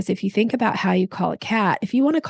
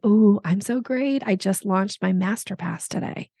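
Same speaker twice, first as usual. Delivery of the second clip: intriguing answer. Shown as a demonstration. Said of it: "I might say".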